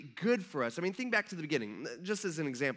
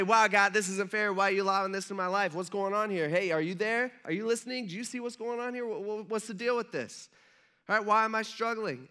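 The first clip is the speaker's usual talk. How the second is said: mock indignant complaint; 3 semitones higher than usual. Voicing people complaining to God.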